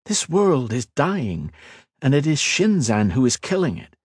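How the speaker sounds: a hint of a calm young lord; earnest mage, lightly voiced. Ethan explaining to the Queen, lightly voiced earnest.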